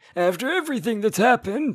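put-on high-pitched elderly man's voice. A dub actor voices a character's line: old man voice. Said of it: "old man voice".

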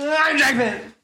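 zippy, quick-fire, very high-pitched, playful delivery. Redoing the host introductions in the fun, fast way. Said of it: "let me do it in the fun, fast way".

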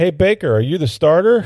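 very high, loud holler carrying far. Retelling what one man shouted to another while wandering off, retelling a shout. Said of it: "he shouts to Mayfield".

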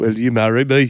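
Brummie Birmingham accent. Character proposing marriage after announcing a question, in a Birmingham accent. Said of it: "do your proposal in the accent".

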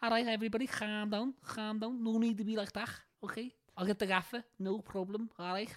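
put-on Liverpool accent. Speaker recalls filming a 90s-style clip in a jacket, put-on Liverpool accent. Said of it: "I put on my Liverpool accent".

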